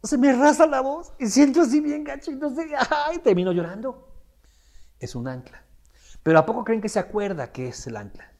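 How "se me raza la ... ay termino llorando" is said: high, whiny mock distress; lightly voiced client describing stage fright; tearful complaint. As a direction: complain like you're about to cry. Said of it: "la gente dice".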